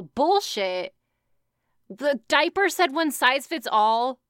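scoffing, sharp disbelief. Real, not acted. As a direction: call it out with scorn. Reacting to diaper claim.

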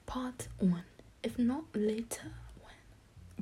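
put-on reading aloud in a tentative British accent; attempted British accent. Reader trying a novel for listeners, British accent. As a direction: read it in an amateur British accent. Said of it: "in a British accent".

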